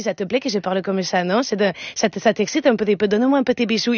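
put-on teasing Spanish-accented seduction. Wife flirting with husband in bed, Spanish accent. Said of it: "quand je parle un peu comme ça".

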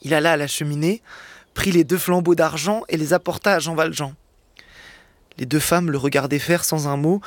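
narration posée, lecture à voix haute; lecture de roman. A narrator's reading. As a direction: raconte la scène au public comme un conteur. (lecture de Victor Hugo, ton de conteur)

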